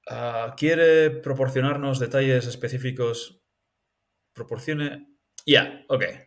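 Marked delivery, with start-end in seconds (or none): 0.6-3.4 Spanish sentence read with Spanish vowels and a rising question; Spanish readout of a question; reading Spanish aloud. Shown as a demonstration. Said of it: "how do I say that in Spanish?".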